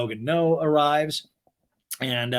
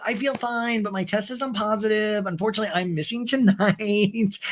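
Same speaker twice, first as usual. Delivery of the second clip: much higher, squealy voice; bubbly Sheena impression; 6 semitones higher than usual. Sheena greets friends on FaceTime, high bubbly squeal.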